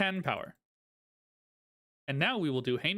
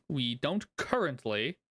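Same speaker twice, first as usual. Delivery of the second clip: currently leaned on, slowed down; drawn-out, pointed currently; stress on currently; slower than usual. Real, not acted. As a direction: hit the word currently. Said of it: "Emphasis on currently".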